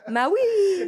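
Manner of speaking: high yelled Maui with a laugh; slide yell. Acted. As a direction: whoop it like a Hawaiian shooting down a slide. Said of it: "what a Hawaiian says when he goes down a slide".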